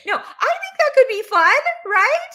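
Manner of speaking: real laughter breaking into the line; laughing. Real, not acted. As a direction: giggle the words out while amused. Laughing at a facetious comment.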